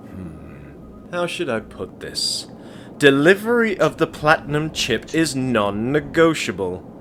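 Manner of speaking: measured, menacing businessman voice; a lightly voiced game mogul, calm and threatening; cold tycoon. Game tycoon coldly warns the courier, lightly voiced.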